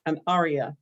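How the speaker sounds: measured poetry reading with long pauses; poem reading. Acted. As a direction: read each phrase as its own line, letting it settle. Reads own poem aloud.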